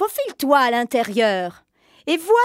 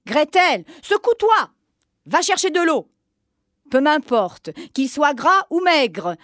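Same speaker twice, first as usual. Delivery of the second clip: impatient witch. Acted. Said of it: "la sorcière perdit patience".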